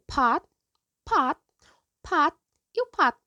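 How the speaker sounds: clipped unreleased t; Korean final t. Shown as a demonstration. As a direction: cut the t off short, held silent. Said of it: "Percebe que todos eles têm a mesma pronúncia".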